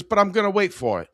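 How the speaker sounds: high, dopey customer voice. Retold or imitated. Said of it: "He goes".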